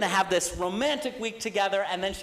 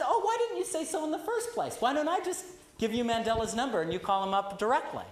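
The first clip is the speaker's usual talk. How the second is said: higher, bright sudden enthusiasm; surprised eager secretary; 3 semitones higher, 4 dB quieter than usual. Retold or imitated. Secretary suddenly delighted when she hears Mandela, higher. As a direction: well why didn't you say so.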